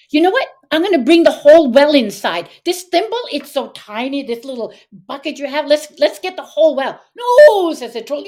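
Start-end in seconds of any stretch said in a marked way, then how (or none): 0.1-7.0 breezy bluff. Acted. Boy bluffing to the troll. 7.2-7.7 high, loud drawn-out cry; alarmed troll. Acted. Troll stopping the boy taking the well, alarmed.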